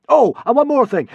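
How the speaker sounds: loud, high, commanding afterthought; god voice. A narrator's reading. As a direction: tack it on grandly.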